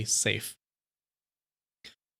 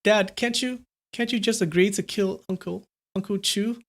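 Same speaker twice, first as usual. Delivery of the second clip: put-on high-pitched pleading boy; begging; 7 semitones higher than usual. A narrator's reading. Son begs his father to give in, pleading. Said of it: "Liu Qin begged".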